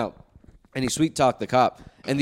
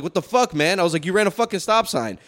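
upset; 5 semitones higher than usual. Retold or imitated. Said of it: "so then I got upset".

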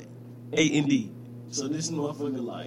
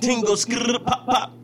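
impression of a rapper; 10 semitones higher, 5 dB louder than usual. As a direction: belt the nonsense ad-libs like a mock grime MC. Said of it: "what'd you say?".

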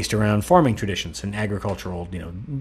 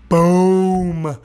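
silly clown; 9 semitones higher, 6 dB louder than usual. Pretend. Punchline yell.

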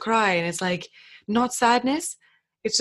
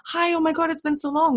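excited greeting; 7 semitones higher than usual. Retold or imitated. Greeting a long-lost friend.

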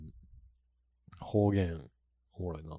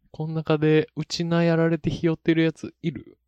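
raised-pitch Okinawan-style anime challenge; mock Okinawan accent; 7 semitones higher than usual. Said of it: "東京リベンジャーズ沖縄バージョン". (高めの声で沖縄なまり風)

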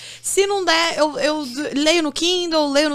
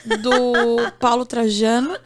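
laughing; slower than usual. Real, not acted. Confessing the unreturned library book.

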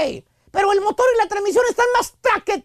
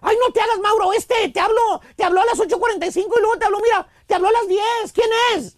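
nagging wife. Acted. Wife grilling husband over a phone number, scolding. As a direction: play the jealous wife grilling her husband. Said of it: "pone ceja regañona y te pregunta".

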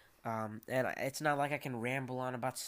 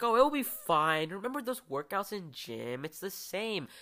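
breezy overconfidence; 5 semitones higher, 4 dB louder than usual. Retold or imitated. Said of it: "going like".

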